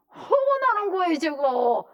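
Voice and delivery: very high, loud exasperation; heated outcry; angry outburst. Real, not acted. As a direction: cry it out, thoroughly worked up.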